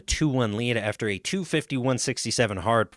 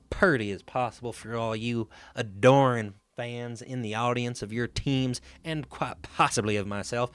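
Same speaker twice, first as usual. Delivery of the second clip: light put-on Southern accent; a hint of Southern charm in the accent. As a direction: slip playfully into a Southern accent. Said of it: "I went to a Southern accent".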